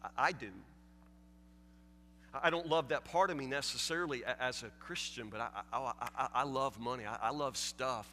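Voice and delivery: low, soft honest admission; quietly admitting he loves money; quiet confession. Real, not acted. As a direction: confess it softly to the congregation. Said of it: "let's just say it".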